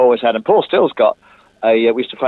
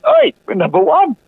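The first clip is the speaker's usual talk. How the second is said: much higher, excited call; Norman's high, excited call; excited announcement; 4 dB louder than usual. Retold or imitated. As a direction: burst in with the good news. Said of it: "Norman came in ... and said".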